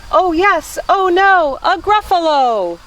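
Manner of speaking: high, hammed-up storybook alarm; alarmed exclamation. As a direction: exclaim as the monster appears. Mouse meets the monster.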